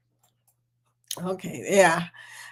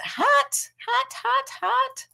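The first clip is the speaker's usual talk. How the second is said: hot hot hot; much slower than usual. Real, not acted. Reacting to Texas heat.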